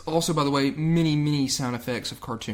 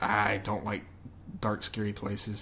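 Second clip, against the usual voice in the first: timid scared voice; 5 semitones lower, 8 dB quieter, slower than usual. Retold or imitated. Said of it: "Lara Croft being like".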